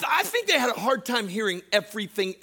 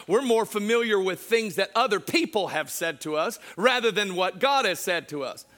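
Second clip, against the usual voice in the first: usual speaking voice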